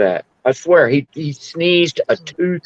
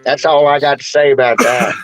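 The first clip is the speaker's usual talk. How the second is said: Forrest Gump line. Retold or imitated. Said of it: "He might have been over there with Forrest".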